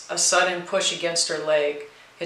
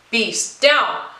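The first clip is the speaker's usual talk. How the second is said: high, loud call to the dog; sharp command; 4 semitones higher, 5 dB louder than usual. A narrator's reading. Vanessa ordering her growling dog down, loud and sharp. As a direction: snap the dog back to heel.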